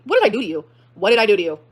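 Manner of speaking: loud, indignant questioning; indignant demand. Real, not acted. Confronting ex over the blame, indignant. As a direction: demand an answer, pushing the volume.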